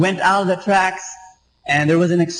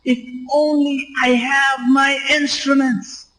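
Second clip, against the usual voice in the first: retold scream; 6 semitones higher, slower than usual. Doctor at the train wreck crying for his instruments, high mock scream. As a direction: cry out for the missing instruments, pitched up. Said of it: "he screamed out".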